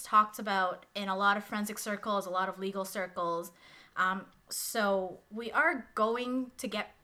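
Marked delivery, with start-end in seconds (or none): 4.0-6.9 talking over a buzzing background noise. Real, not acted. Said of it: "Sorry for the buzzing in the back".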